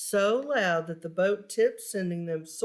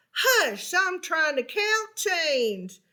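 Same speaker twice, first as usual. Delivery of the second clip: irritated ticket seller; 7 semitones higher, slower than usual. Acted. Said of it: "The ticket seller called".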